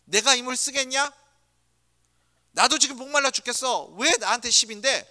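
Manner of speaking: a touch of exasperated anger; irritated retort. Retold or imitated. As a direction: snap back at the grumbling crowd. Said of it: "모세였다면 뭐라고 말씀하시겠습니까".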